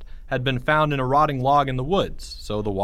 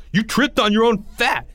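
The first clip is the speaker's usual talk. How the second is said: louder, higher yell; 11 semitones higher, 5 dB louder than usual. Acted. Greg yelling his denial at Porge, loud. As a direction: shout the denial.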